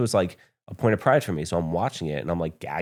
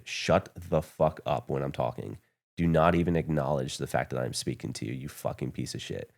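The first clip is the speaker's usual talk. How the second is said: retold chewing-out; 3 semitones lower, 4 dB quieter than usual. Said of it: "he got in my face and said".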